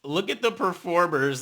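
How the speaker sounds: ordinary talk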